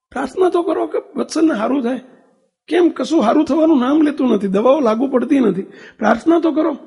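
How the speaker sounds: high, anxious pleading; pleading mother. Retold or imitated. Mother begs husband to call the swami, anxious and pleading. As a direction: beg him to pray for the sick son. Mother begging father to pray.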